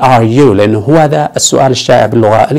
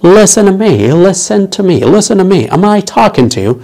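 mock angry; 5 semitones higher than usual. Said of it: "لما تتعصب تقول له".

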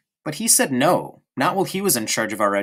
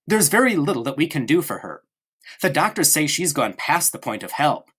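mock politeness; 3 semitones higher than usual. Bruno mimicking Gretel to the guest, mock polite. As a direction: parrot his sister's apology back at her, sweetly. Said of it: "he added politely".

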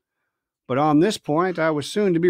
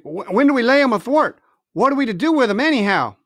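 eager; 6 semitones higher, 4 dB louder than usual. Acted. Dick eager question.

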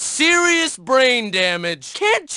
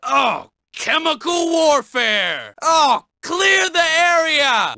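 alarmed shout; 5 semitones higher than usual. Acted. Stink bomb alarm.

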